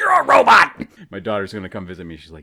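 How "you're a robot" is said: shrill, very loud, high-pitched yelling. Imagining being old in a nursing home with robot attendants, mock yelling. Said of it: "I'll just be yelling at them".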